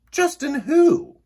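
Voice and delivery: high, slow, loud chorus question; chorus asking. A narrator's reading. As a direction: draw out the who together. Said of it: "they all asked".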